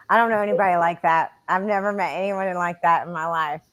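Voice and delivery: dry, fast and deadpan sarcasm; sarcastic. Real, not acted. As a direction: say it with heavy irony. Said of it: "I'm being very sarcastic".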